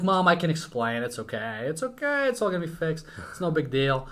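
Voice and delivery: mock pleading with mom, pitch jumping; lightly acted anxious kid's reassurance. Kid explaining a bad grade to mom, pleading.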